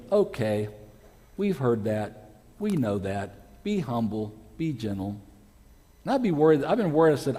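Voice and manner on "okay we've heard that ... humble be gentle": unimpressed acceptance. Acted. Congregation to preacher about familiar verse, unimpressed acceptance. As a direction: imitate bored listeners, sinking lower phrase by phrase.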